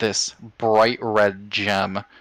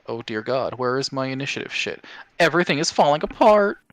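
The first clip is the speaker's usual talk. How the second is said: frantic, rising, faster; panicking; 5 semitones higher, faster than usual. Real, not acted. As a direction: scramble in a panic. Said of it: "there's a reason why I was panicking".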